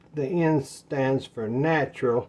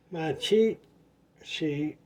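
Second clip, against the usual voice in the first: lisping around loose dentures; words slurred by a dental plate; slower than usual. Real, not acted. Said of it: "these darn teeth".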